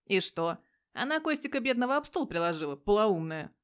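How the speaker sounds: loud, scornful comeback; loud scornful answer; angry retort. Acted. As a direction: spit out the insult at the end. Petya retorts angrily.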